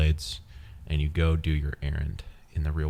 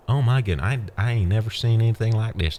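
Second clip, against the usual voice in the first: hammed-up Southern amazement, higher; Southern accent; 5 semitones higher than usual. Listener in imagined town gawps at juggled ducks, Southern accent. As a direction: play an awestruck onlooker with a Southern accent. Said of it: "you have a Southern accent".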